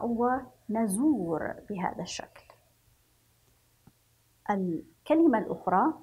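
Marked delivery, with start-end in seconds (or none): 0.0-1.5 ونزور with a drawn-out oo; long U vowel. Shown as a demonstration. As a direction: stretch the waw in ونزور. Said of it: "ومع واو المد. سنقرأ".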